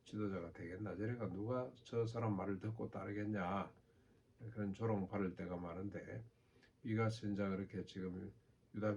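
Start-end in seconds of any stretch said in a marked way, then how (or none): 0.1-3.7 understated, softer scoffing aside; subtle mockery. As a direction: lightly scoff under cover of concern. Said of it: "은근히 조롱을 하죠". (은근히 비웃는 말투)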